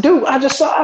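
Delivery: high, rattled retold exclamation; stunned retelling. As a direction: blurt it out in shock. Retelling shock to friend.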